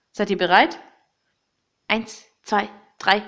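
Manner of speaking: building to a loud battle cry; rally them, then yell the charge. Acted. (Schlachtruf, laut)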